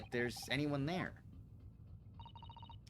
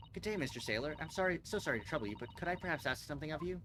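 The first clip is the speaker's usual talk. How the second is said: overly polite; 2 semitones higher than usual. Acted. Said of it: "let me try instead".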